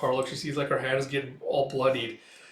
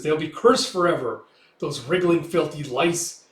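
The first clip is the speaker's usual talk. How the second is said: vengeful curse; 3 semitones higher, 5 dB louder than usual. Retold or imitated. Wounded father curses everyone.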